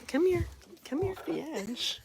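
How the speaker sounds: high-pitched sing-song coaxing; high coo, softening as it goes; coaxing pet talk. Real, not acted. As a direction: call a little dog over in a high voice. Coaxing the little dog over.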